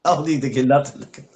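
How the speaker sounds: mock his retort, barely holding in laughter; laughing mimicry. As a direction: repeat it through wheezing laughter. Mocking co-host's retort while laughing.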